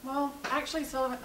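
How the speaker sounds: talking while chewing gum. Real, not acted. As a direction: speak around a piece of gum. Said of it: "You're chewing gum?".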